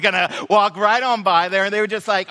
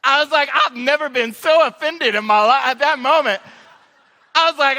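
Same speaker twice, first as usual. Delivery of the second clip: laughing; 6 semitones higher, 3 dB louder than usual. Real, not acted. Laughing at being doubted.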